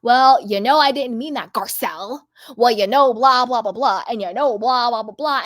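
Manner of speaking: sarcastic imitation of a self-excusing friend; mocking Dorit. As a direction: parody her defensive rambling. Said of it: "she has to be like".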